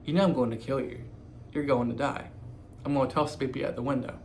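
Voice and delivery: flat, emotionless monotone delivery. Retold or imitated. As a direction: say it in a dead monotone. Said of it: "straight monotone".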